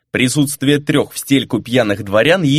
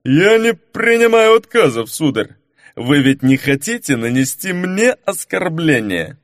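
put-on drunken insistence; 3 semitones higher than usual.

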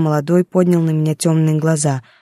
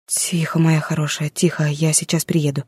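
soothing; 4 dB quieter than usual. Acted. Mother calms her crying daughter.

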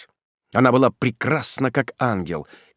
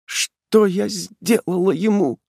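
breathless whisper; 9 semitones higher, slower than usual. Acted. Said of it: "прошептала она задыхающимся голосом".

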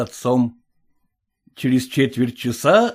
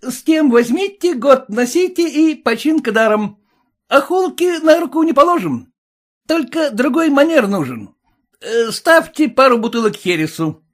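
brash bragging; 10 semitones higher than usual. Acted. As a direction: sell it with swagger. Son haggles, bragging.

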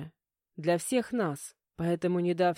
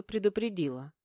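usual speaking voice

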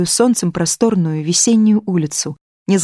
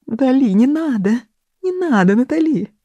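high-pitched plea, rising on the repeat; pleading; 7 semitones higher than usual. Acted. Boris begs Natali to stop, climbing high. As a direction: beg her to stop, voice climbing.

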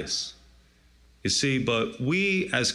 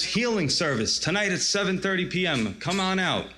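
slightly raised promoter's voice; touting tent healer; 4 semitones higher than usual. Retold or imitated. Preacher retelling a healer's flyer pitch, touting. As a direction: lightly imitate a revival huckster.

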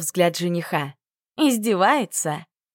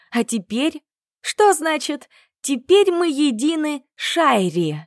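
rising, louder outrage; indignant rant; 5 semitones higher, 3 dB louder than usual. Acted. Heroine scolds the old woman over the bracelet, indignant and rising. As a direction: rant at the meddling grandmother, each question climbing.

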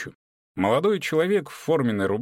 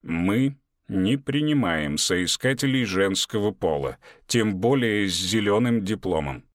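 stony voice; 2 semitones lower than usual. Acted. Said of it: "Каменный голос, многократно отражённый эхом".

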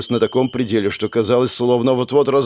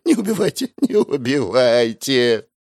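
desperate pleading; 3 semitones higher than usual. Acted. Terrified trainee begs not to be killed, pleading. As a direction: plead for your life.

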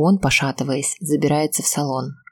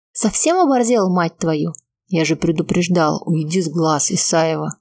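angry shout. Acted. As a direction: bark it at her in fury. Furious man yelling at girl.

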